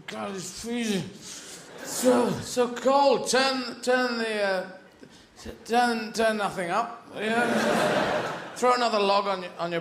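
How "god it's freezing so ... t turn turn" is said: slow, drawn-out shivering moan building to a shout; freezing caveman. Acted. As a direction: caveman complaining to his family about the cold, shouting slowly. Caveman freezing before fire.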